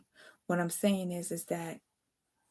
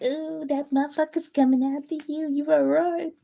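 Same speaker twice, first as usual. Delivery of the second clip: higher, louder, put-on ominous voice; mock spooky warning; 7 semitones higher, 4 dB louder than usual. Reader mocking other readers' scary warnings, hammed-up higher voice. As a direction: ham up a cheap scary prediction. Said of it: "some nasty little slick shit".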